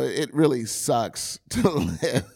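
mock complaint breaking into a laugh; tongue-in-cheek. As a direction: pretend to moan, fail to keep a straight face. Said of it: "can't even say that with a straight face".

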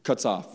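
"Cuts off" said crisply, as the Hebrew sound; Hebrew word sounds. Shown as a demonstration. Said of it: "The Hebrew word for very angry sounds like cuts off".

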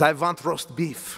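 put-on a light, slow Eastern European accent on "I want roast beef", the w said as a v; barely put-on Eastern European accent, slow; a starving passenger begging in a faint Eastern European accent. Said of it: "sounded more Eastern European".

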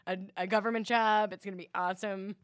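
mock eager fantasy. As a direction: gush about joining the mail service. Imagining quitting for mail job.

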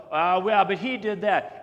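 loud indignant "but he did that"; mock indignant retort. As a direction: snap back like a spouse caught out. Couple bickering on TV show.

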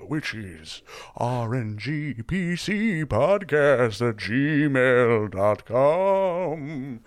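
haunt the outro like a giggling ghost. Pretend. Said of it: "Should I do a ghost voice".

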